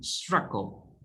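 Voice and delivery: "struggle" stressed on the first syllable. Shown as a demonstration. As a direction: lean on STRUG, let the end of "struggle" drop. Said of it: "Stress on struggle".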